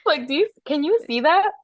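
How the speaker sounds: laughing through tears; eyes watering with laughter; teary from laughing. Real, not acted. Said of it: "crying right now".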